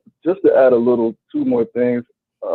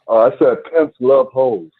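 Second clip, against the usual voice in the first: louder and slower, spelled out; to someone hard of hearing; 5 dB louder, slower than usual. Real, not acted. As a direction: speak up so they finally hear. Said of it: "Sp-, speak up".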